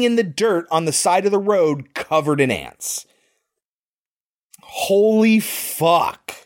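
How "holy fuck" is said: breathless whispered curse, drawn out slowly; shocked whisper. Real, not acted. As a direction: let it slip out under your breath, stunned. Own shocked reaction to scene.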